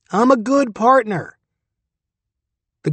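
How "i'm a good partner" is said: high, squeaky little critter. A narrator's reading. Durden's dick answering him, high squeak. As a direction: pipe it up high and cheeky.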